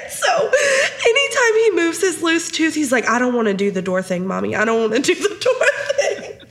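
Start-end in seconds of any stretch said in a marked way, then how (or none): 0.1-2.7 high-pitched, helpless laughter in the words; real giggles breaking up the words; laughing while talking. Real, not acted. Cracking up while telling the story. 3.1-6.4 lightly voiced child's protest, breaking into laughs; mortified child. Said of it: "And he was mortified".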